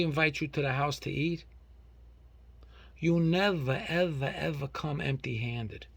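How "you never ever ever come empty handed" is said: loud, worked-up scolding; indignant rant. Real, not acted. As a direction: give them a proper outraged tirade. Ranting about guests coming empty-handed.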